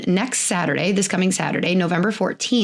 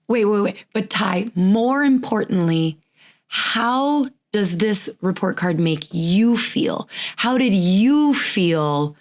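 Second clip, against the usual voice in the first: gentle parental check-in. Retold or imitated. Parents gently asking daughter's feelings.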